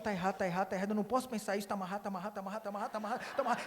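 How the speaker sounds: fast anxious repeating under the breath; wife rebuking her own thoughts; flustered muttering. Retold or imitated. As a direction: rattle it off in a panic. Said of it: "E ela sai assim, falando".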